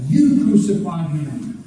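"You" stressed, then falling away; deliberate weight on "You", falling close; emphatic stress on YOU. Shown as a demonstration. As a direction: land firmly on "You" as an accusation. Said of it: "is emphatic".

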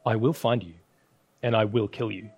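solemn gravelly movie threat, lightly done; a hint of a low, menacing kidnapper call; grinding rumbling rock voice. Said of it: "solemn, gravelly voice".

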